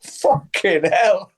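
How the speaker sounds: slow, stunned awe; drawn-out amazed curse. Retold or imitated. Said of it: "Sitting there going".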